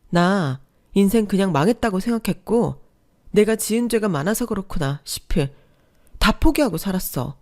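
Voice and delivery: bitter rant. Acted. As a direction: vent years of betrayal. Wife ranting about betrayal.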